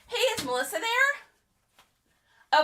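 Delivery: put-on high, slow sweet kid asking politely; polite phone kid. Kid asking Melissa's parent for her on the phone.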